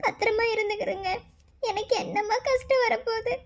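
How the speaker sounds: quietly weeping mother; tearful farewell. Acted. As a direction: hold back tears as she sends her daughter off.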